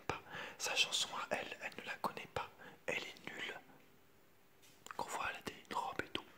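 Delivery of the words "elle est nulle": ordinary delivery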